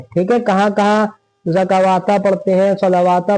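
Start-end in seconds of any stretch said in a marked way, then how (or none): 1.5-2.2 ज़कावाता with an extra "waa" before "ta"; wrong reading. Shown as a demonstration. Teacher listing mistakes people make, waw pronounced. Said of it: "गलत पढ़ते हैं". 2.8-3.4 सलावाता with an extra "waa" after "la"; wrong reading. Shown as a demonstration. Teacher listing students' mistakes, waw pronounced. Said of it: "गलत पढ़ते हैं".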